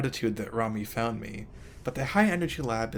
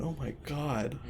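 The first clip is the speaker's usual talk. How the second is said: breathless, catching her breath; 5 dB quieter, slower than usual. Real, not acted. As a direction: exhale it, still shaken. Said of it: "Let me catch my breath for a moment".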